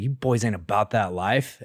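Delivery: put-on a touch of heavy West Texas accent. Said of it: "my West Texas accent, really thick".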